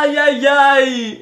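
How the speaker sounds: drawn-out ouch after a slap; real pain after slapping himself; slow pained ai. Real, not acted. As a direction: stretch it out like it stings.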